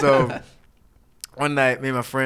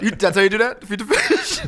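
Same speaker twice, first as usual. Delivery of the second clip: higher and louder, pitch flying up on fish; imitating a shrieking furious father; mock angry dad; 9 semitones higher, 5 dB louder than usual. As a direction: scold the kid in disbelief. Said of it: "I was like".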